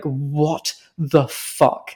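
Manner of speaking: low, slow stunned what the fuck; mild mock shock at the film; slack-jawed disbelief. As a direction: drop the jaw and let it fall out slowly. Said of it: "slack-jawed".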